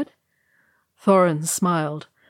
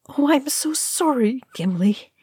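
small, high, sorrowful murmur; sad little voice; 8 semitones higher than usual. A narrator's reading. Merry comforting grieving Gimli, sad little voice. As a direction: say it high and small, full of sympathy. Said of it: "he murmured in a sad little voice".

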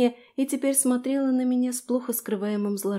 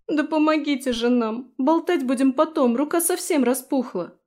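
higher, louder impatient plea; urgent demand; 6 semitones higher, 5 dB louder than usual. Acted. The fairy urges the girls to stop chatting, frantic. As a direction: hurry them along, frantic.

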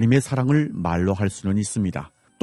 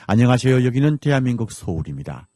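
bright announcer greeting; 3 semitones higher than usual. Acted. Radio program signature greeting.

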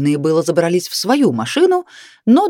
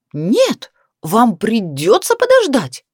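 barked refusal; 6 semitones higher, slower than usual. A narrator's reading. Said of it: "вдруг рявкнула Леночка".

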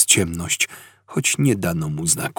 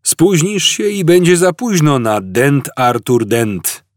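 gloomy; 7 semitones higher, 5 dB louder than usual. A narrator's reading. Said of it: "stwierdził stary posępnie".

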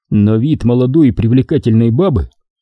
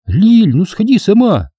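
put-on teen girl voice; 9 semitones higher than usual. A narrator's reading. Nadya answers, voiced character.

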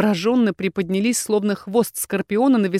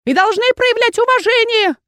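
high, louder, lecturing aunt; aunt reminding; 5 dB louder than usual. A narrator's reading. Aunt lecturing the inquisitor on manners, high and loud. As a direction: remind him sternly in a high old voice. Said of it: "напомнила тётушка".

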